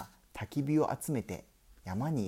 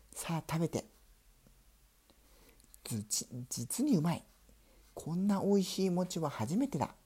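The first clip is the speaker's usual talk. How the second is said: high mouse voice; 7 semitones higher than usual. Acted. Mice eat the rice cake.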